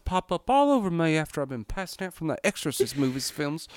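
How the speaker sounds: lightly hammed-up Southern Belle. Lady explaining her weird sounds, Southern Belle accent. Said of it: "Southern Belle".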